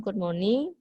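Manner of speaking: "Good morning" left hanging as a separate piece; cut off, disconnected. Shown as a demonstration. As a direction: say "Good morning" on its own, then stop. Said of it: "tidak terputus-putus, kalian potong-potong".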